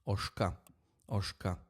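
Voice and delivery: "oshka" short, hushed sh without throat sound. Shown as a demonstration. Teacher showing the softened letter, voiceless sh. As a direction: drop the buzz from the middle of "oshka". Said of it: "It becomes softer without that guttural".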